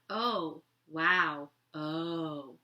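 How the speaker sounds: a touch of shock at the news; mock surprise. Mom hearing about the boy on the phone, mildly taken aback. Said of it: "This is exactly what she said".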